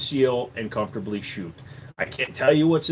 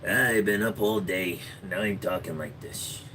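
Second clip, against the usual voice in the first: method actor; 3 semitones lower, 4 dB quieter than usual. Pretend. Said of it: "you're gonna see me out there going".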